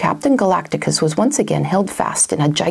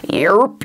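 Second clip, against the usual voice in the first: mock burp as a word. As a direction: belch it out like a full beast. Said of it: "he burped".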